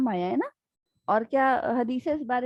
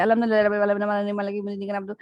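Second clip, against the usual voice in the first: autopilot recitation; 3 semitones lower, faster than usual. Shown as a demonstration. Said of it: "اور ہم auto pilot پہ اگر پڑھ رہے ہیں".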